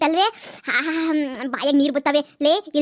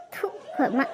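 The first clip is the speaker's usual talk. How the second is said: laughing; 7 dB quieter, much slower than usual. Acted. Laughing at mother.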